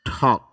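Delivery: ঠক, push air after the ṭ; aspirated ঠক. Shown as a demonstration. Teacher showing students ঠক with aspiration. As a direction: say ঠক with a breathy aspirated ṭh. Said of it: "টক না হয় ঠক হবে উচ্চারণটা".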